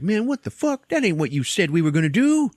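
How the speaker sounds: high-pitched, indignant mock outburst; outraged protest. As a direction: protest loudly in a squealing voice. Jenny protests the planned dissection.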